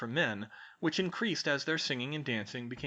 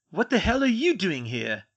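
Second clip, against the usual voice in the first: loud, high-pitched indignant demand; 7 semitones higher, 8 dB louder than usual. A narrator's reading. Draco confronting the freed elf, loud indignant demand. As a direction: demand an answer, outraged. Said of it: "Draco demanded".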